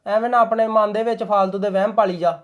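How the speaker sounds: husband silencing wife's suspicions; curt dismissal. Acted. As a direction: shut her down. Shuts wife down.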